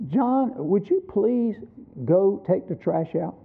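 soft, slow polite asking, like asking a favour; father gently asks his little son to take the trash out, politely; polite request. Retold or imitated. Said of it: "you could tell in my tone of voice it really wasn't a suggestion".

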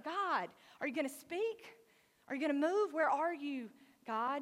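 a loud cry asking where God is; pleading cry. Retold or imitated. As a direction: call out, demanding an answer. Elijah cries to God.

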